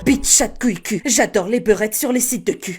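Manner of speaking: put-on thin, tense boy-wizard voice; Harry Potter. Shown as a demonstration. Creator showing off insults, nervous Harry Potter impression. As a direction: swear in a nervy, thin voice. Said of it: "des insultes avec la voix d'Harry Potter".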